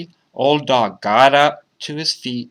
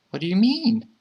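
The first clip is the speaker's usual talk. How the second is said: put-on high, puzzled child's question; high child's voice rising sharply; 11 semitones higher than usual. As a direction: ask it high like a confused little kid. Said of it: "asked the child".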